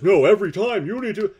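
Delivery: high, loud mocking hag; cackling hag voice. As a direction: mimic a shrill nagging old hag. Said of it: "the cackling hag says".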